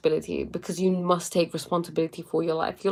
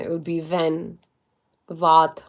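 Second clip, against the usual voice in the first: wenn and wat with German V sounds; mock German accent on wenn and wat; 2 semitones lower, slower than usual. Shown as a demonstration. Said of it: "if I was to say in a German accent".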